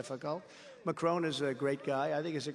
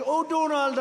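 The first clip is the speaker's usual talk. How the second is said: mock Macron; 10 semitones higher, 9 dB louder than usual. Macron voiced pleading.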